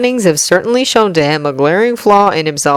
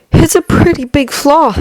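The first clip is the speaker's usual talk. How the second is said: put-on higher, earnest young man's voice; young hero voice; 10 semitones higher than usual. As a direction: voice him tense but polite. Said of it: "he mutters to himself".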